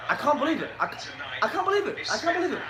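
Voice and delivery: high-pitched "can't" with a British "ah" vowel; British long A. Shown as a demonstration. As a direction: pitch it up, saying "can't" as "cahn't". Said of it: "you guys say, like".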